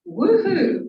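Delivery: high, loud woohoo; excited cheer. Shown as a demonstration. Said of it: "I'm known for encouraging people to say".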